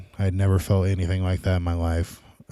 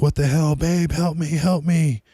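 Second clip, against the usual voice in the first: high-pitched frantic begging; imitating a terrified cry for help to his wife; retold panic, voice pitched way up; panicked plea; 9 semitones higher than usual.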